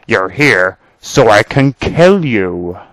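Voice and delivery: slow villain's reveal; menacing threat. Acted. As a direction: draw out the threat deliberately. Villain reveals his death threat.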